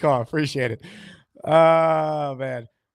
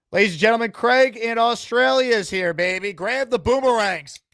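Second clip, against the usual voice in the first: hype announcer; 7 semitones higher, 4 dB louder than usual. Pretend. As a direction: announce the caller like a star entering the arena, loud and high. Hyped introduction of Australian caller.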